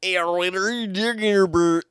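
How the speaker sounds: muddled Ukrainian-American accent, badly faked; attempted Ukrainian-American accent. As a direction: ham up a would-be Ukrainian accent. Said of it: "like, Ukrainian American".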